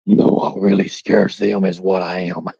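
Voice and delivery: low, put-on menacing voice; scary deep voice. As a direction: sink down into a scary villain register. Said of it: "your voice scares them when you do it like that".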